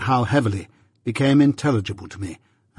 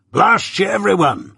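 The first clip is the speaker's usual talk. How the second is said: higher, ringing defiant curse; 9 semitones higher than usual. A narrator's reading. Convict to everyone, defiant cursing. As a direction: fling the curse at the room. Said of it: "snapping his fingers".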